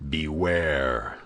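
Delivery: threatening. A narrator's reading. Captor warning Milady, threatening. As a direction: warn her darkly. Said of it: "in a threatening accent".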